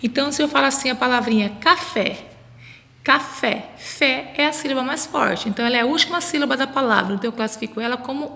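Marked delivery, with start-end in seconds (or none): 1.6-3.7 café with the second syllable, fé, stressed; stress on final syllable. Shown as a demonstration. Teacher shows children the tonic syllable, café stressed on fé. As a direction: say café leaning on the closing fé. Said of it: "sílaba que eu pronuncio com mais força".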